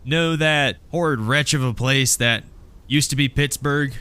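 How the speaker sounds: Amy addressing crowd. Acted. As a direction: put a rousing question to the gang. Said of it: "She goes".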